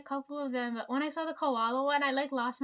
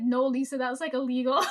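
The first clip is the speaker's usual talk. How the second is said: loud mock reply; 7 dB louder than usual. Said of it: "And I was like".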